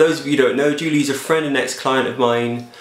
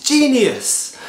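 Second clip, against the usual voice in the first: sarcastic praise; 10 semitones higher than usual. Pretend. Sarcastic verdict on the idea.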